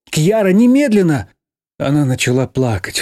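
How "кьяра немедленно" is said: loud high command; urgent shout. Acted. Girl shouts the child's name through the door. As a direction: demand it now.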